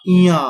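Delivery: इया pushed through the nose, loud; nasal इया demo; nasal sound. Shown as a demonstration. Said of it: "ये नाक से बोला जाता है".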